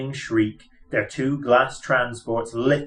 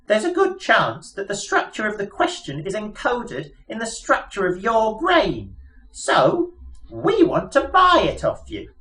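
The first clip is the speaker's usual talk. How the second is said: high, chirpy little mouse voice; piping mouse voice; 10 semitones higher than usual. Acted. Mouse explaining their plans to Arthur, piping high voice. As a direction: squeak it out like a pompous lab mouse.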